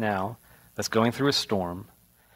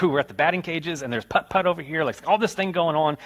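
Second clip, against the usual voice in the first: put-on excited kid; 4 semitones higher than usual. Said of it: "so excited because I was like".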